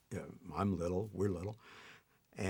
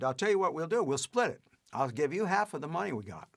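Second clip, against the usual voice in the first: higher-pitched Cohen offering a deal, lightly imitated; Harry Cohen impression; 5 semitones higher than usual. Cohen offering to split the money, lightly imitated. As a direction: play the smooth studio boss bargaining. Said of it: "in perfect Cohen".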